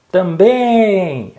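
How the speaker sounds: high drawn-out call, "Também" held on BÉM; pretend shout. Shown as a demonstration. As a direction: shout it out to find the stressed syllable. (grito didático, com BÉM esticado)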